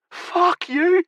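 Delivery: high, loud furious shout. A narrator's reading. Captive shouting at the laughing men, high and loud. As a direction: hurl it at them. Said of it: "he shouted".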